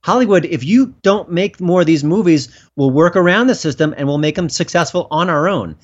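loud, emphatic mock challenge to the industry; acted public demand, punched hard; rallying call.

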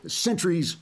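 slow, lofty mock-pompous broadsheet tone; New York Times voice. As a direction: read it like a self-important newspaper columnist. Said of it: "I'll have to do this in a New York Times voice".

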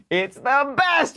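squeaky high laugh through the words; laughing delight. Real, not acted. Host cracking up after reading the tweet, laughing. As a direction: crack up while saying it.

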